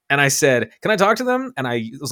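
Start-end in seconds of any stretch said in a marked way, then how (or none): 0.8-1.5 urgent demand. Retold or imitated. Demanding on the phone from police.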